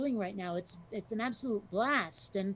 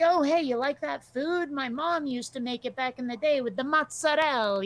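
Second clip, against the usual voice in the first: lightly voiced Italian American, a bit louder; a hint of a loud, friendly Italian American; Italian American guy; 4 semitones higher, 5 dB louder than usual. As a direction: slip into a chummy Italian American guy who suddenly changes. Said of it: "You know, it's like".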